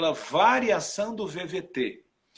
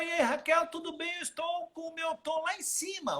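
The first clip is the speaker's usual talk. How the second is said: much higher than usual, bright greeting; greeting a friend in a high voice; 11 semitones higher, 5 dB quieter than usual. Shown as a demonstration. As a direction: pitch it way up to show a high tone. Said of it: "eu estou de forma aguda".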